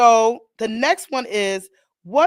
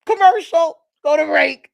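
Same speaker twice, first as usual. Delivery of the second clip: mock urgent call; 6 semitones higher, 6 dB louder than usual. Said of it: "last week I was on my show".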